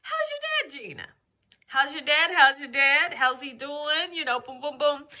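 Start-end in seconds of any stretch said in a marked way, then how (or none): 0.0-4.1 much higher mock chorus of fans asking; lightly voiced curious viewers; eager commenters. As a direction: imitate eager followers pestering. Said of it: "everybody's asking about my dad".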